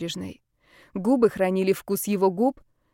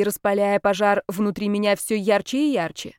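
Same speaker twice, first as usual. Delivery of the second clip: usual speaking voice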